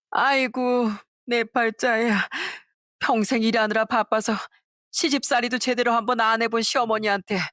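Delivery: 연기된 울음 하소연. Acted. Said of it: "엉엉 울면서".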